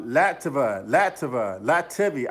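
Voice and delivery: testing "Lativa" then "Lativia", unsure of the name; fumbling for how to say "Lativia"; trying out pronunciation. Real, not acted. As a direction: sound out "Lativa" over and over, then try "Lativia". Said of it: "I can never pronounce that".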